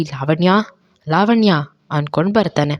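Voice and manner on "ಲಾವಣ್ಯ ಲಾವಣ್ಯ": angry call. Acted. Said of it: "ಶರತ್ ಕೋಪದಲ್ಲಿ".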